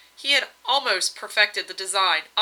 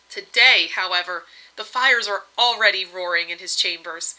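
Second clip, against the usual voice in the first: cheerful; 4 dB louder than usual. Acted. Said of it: "she continued in a cheerful tone".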